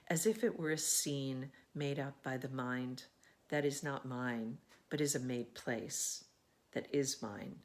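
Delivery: measured poetry reading with phrase-end pauses; poem recitation. Acted. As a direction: read the poem aloud, savouring its music line by line. Reads a poem aloud.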